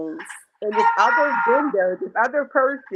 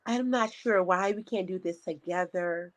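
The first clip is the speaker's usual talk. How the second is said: mock polite voice; 7 dB quieter than usual. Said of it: "in her nice, polite voice".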